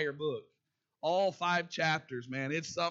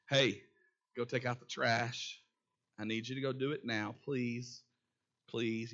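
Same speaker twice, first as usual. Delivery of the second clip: sweet loving parent; 5 semitones lower than usual. Retold or imitated. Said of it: "in that nice, sweet, loving parenting voice".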